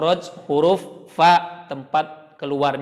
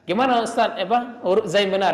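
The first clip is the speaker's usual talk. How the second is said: mock student question; 6 semitones higher, faster than usual. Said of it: "ngajarin ke murid".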